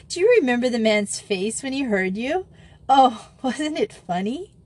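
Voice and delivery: high, gleeful reminiscing; amused. A narrator's reading. Joey recalling Grisel's blunder, gleefully amused. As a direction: share the joke with relish. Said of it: "malice vanished in a chuckle".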